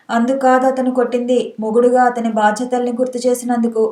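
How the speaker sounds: plain reading voice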